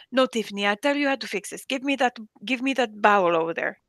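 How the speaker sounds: imitated Jordanian boss giving orders; lightly put-on Arabic accent, insistent; boss's Arabic accent, lightly imitated; strong Arabic accent. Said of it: "somebody with a strong accent".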